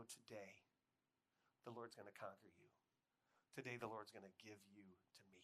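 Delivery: soft, low, assured; quiet conviction. Acted. Facing your own Goliath in faith, quiet conviction.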